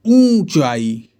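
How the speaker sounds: ऊंचाई said very slowly, the ऊ long; drawn-out long oo. Shown as a demonstration. Teacher showing students the long ऊ, slow and drawn out. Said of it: "इस सब में बड़ा ऊ रहता है".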